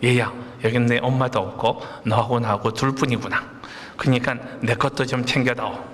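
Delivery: a hint of a solemn God, breaking into laughter; mock divine voice, laughing through it; lightly voiced God. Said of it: "하나님이 그렇게 얘기했다고".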